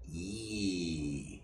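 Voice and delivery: "E" said with spread lips as in a smile; "E" with lips stretched into a smile; Norwegian i. Shown as a demonstration. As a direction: smile wide and say "E". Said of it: "you stretch your mouth like you make a smile".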